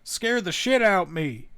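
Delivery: reading a badly translated diary, lightly hamming the writer's voice; mock the guy's talk. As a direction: lightly play the diary writer saying "Scared the shit out me". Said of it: "that's just how the guy talks".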